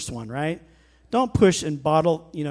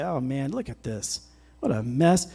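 discouraged sigh; 3 semitones lower, 5 dB quieter than usual. Retold or imitated. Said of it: "if we get discouraged and say".

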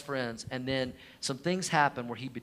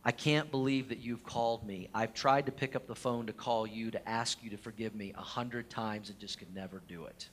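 choked up; 4 semitones lower, 5 dB quieter than usual. Retold or imitated. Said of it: "choking back tears".

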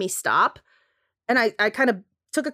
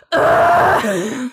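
loud throaty ugh of disgust; guttural frustrated groan; 2 semitones higher, 6 dB louder than usual. Retold or imitated. Fleeing up the stairwell from the pilot, guttural groan. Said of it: "guttural, frustrated sound".

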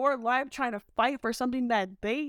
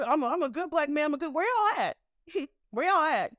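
mocking good black man; 5 semitones higher than usual. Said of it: "mocking the self-styled good black man".

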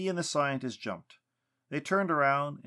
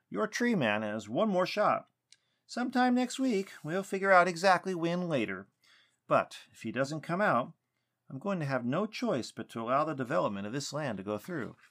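higher-pitched, mildly stern warning; stern ultimatum; 6 semitones higher, 3 dB louder than usual. A narrator's reading. Weston giving Lucas's tree man one more shot, mildly stern. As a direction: lay down the terms with a touch of firmness. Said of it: "his voice stern now".

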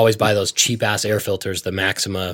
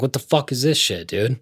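louder, higher, heated complaining; retold parts-counter rant; 3 semitones higher, 4 dB louder than usual. Ranting to his friend about the pricey filters, hammed-up indignant. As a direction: vent at the clerk like you're fed up.

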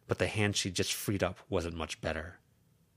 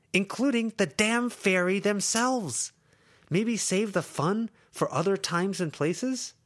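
high, louder and slow; emphatic plea; 13 semitones higher, 5 dB louder, slower than usual. Acted. Lucy to Verona, slow emphatic plea. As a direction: lean on every word.

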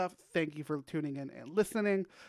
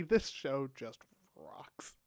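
slow emphatic praise; 3 semitones lower, 5 dB quieter, much slower than usual. Real, not acted. Host enthusing over the cast.

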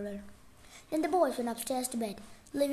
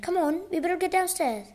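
higher-pitched urgent call; urgent exclamation; 6 semitones higher, 4 dB louder than usual. A narrator's reading. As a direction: hurry the listener along. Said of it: "Frank exclaimed".

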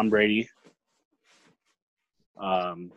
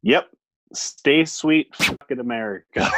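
squeaky, slightly higher sign-off; 3 semitones higher than usual. Pretend. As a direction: squeak out the goodbye playfully. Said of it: "make one more squeaky squeak".

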